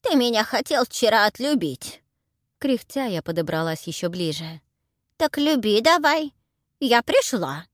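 high, loud granny; demanding old crone. Acted. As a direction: insist like a brazen old woman. Heroine plays old crone. (наглая старуха требует громко)

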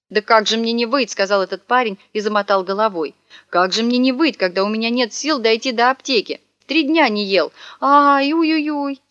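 high, whiny mock lament; theatrical fake howling; hammed-up wailing. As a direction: wail it like a beggar faking misery. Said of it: "ещё хуже завыл".

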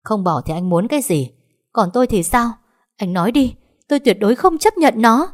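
high, loud despairing cry; desperate scream. A narrator's reading. Wife screams her refusal at husband, high and loud. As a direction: scream out helpless rage. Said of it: "tuyệt vọng xen lẫn bất lực gào lên".

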